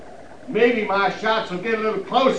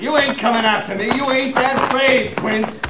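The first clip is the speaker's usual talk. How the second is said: loud taunt; 2 semitones higher, 4 dB louder than usual. Acted. Sniper taunting his pinned target.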